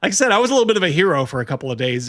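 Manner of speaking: usual speaking voice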